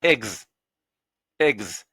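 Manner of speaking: ex said with an open è; syllable ex. Shown as a demonstration. Teacher recapping how ex is said. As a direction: say ex firmly. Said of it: "ça va se dire quand même".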